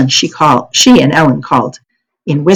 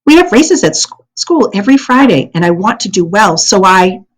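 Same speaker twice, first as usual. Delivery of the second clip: trailing off; 3 semitones higher than usual. Acted. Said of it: "her voice trailed away".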